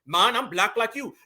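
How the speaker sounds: lightly put-on Jamaican accent; a hint of imitated Jamaican accent; mock Jamaican accent. Mimicking the immigrant claiming to be Black like them, mock Jamaican accent.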